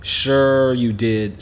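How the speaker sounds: slow, dry disbelief; mother brushing off her son's space-rock story, sarcastic. Acted. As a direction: drag it out like an unbelieving mom. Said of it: "rolling her eyes".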